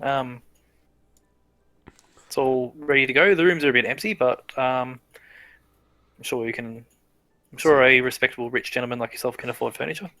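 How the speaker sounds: a hint of an eager guard; lightly voiced flustered guard; fawning guard. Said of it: "he goes".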